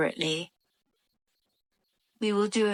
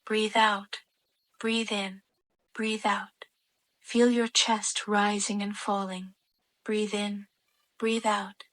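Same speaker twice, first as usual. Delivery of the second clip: calm, evenly spaced breathing cues; guided breathing meditation. Real, not acted. Adult leading children to breathe in and out, guided meditation voice.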